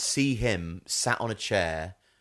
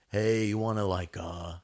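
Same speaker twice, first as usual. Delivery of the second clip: Lawrence Stroll. Acted. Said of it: "Why are you doing Lawrence Stroll?".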